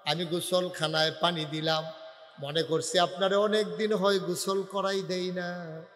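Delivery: slow, lilting plaintive chant; melodic sermon narration. Acted. Preacher voicing Ayesha explaining to the Prophet, melodic chant. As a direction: draw out each line ending tenderly.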